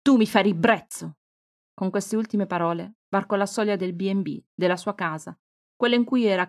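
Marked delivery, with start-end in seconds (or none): 0.0-1.2 disgusted outburst. Acted. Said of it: "avvicinò minacciosa il viso".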